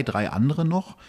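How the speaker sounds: ordinary talk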